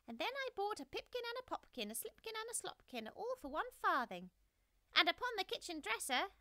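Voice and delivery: very high, loud taunting squeak; cheeky mouse voices. A narrator's reading. Rude little mice taunting Simpkin, high cheeky squeak. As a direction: tease the cat outside. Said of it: "added the rude little mice".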